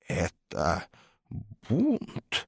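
hoarse wheeze. A narrator's reading. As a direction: croak it out in shock. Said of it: "прохрипел профессор".

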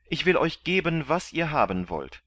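loud, high urgent offer; shouting. A narrator's reading. Kandid shouts his offer to the galley master. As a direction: call out over the galley noise. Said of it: "schrie Kandid".

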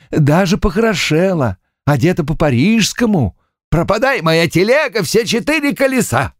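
puffing, short of breath; lightly wheezing old landowner; breathing heavily. A narrator's reading. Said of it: "Пищик тяжело дышит". (тяжело дыша)

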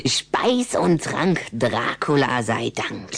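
drawn-out mock-solemn rhyme; slow vampire saying. Rüdiger reciting the vampire grace, slowly and solemnly. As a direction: intone it slowly like a motto.

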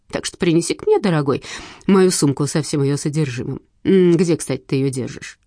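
lightly voiced sly widow, mocking; a hint of a purring widow; scheming widow. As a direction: needle him sweetly with contempt. Widow character demands her bag.

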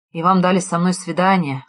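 ordinary delivery, nothing marked

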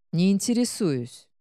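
мягкий бархатный мужской голос; тихо и близко, словно на ухо. Acted. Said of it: "прямо на ухо произнёс мужчина бархатным голосом". (бархатным голосом на ухо)

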